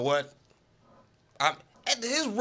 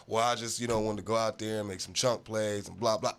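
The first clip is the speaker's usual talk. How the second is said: mock Brady dodge; 7 semitones lower, 3 dB quieter than usual. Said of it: "voicing Brady's answer again".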